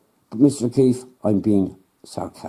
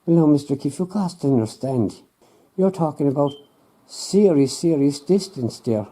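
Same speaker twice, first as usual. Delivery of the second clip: patient, condescending scientist, pitched a touch higher; lightly voiced know-it-all scientist; smug scientist; 5 semitones higher than usual.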